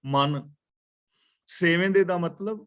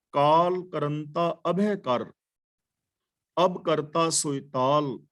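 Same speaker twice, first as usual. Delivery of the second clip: scripture recitation; slower than usual. Acted. Recites Kabir verse.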